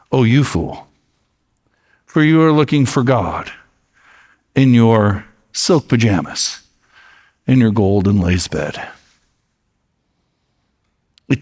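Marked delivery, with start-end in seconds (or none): 0.1-8.9 calm shaman. Acted. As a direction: gently turn the insult back on him. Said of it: "and very calmly".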